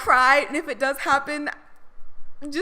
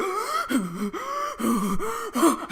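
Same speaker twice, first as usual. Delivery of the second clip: overwhelmed gasp; 4 semitones higher, 4 dB quieter than usual. Pretend. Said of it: "I'd be like".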